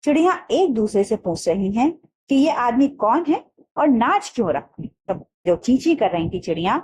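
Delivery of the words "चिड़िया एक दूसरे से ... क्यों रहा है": laughing mother. Acted. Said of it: "हंसकर बोली".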